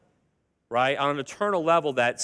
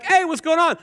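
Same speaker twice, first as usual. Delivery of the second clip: put-on parent questioning kid; 12 semitones higher, 4 dB louder than usual. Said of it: "you're like".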